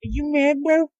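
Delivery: high, put-on taunting voice; mocking heckler. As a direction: jeer like a scornful internet troll. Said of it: "somebody's gonna sit there and be like".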